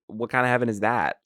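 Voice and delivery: mock disbelief at heaven's rules; rising incredulous rant. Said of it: "I'm sitting here like".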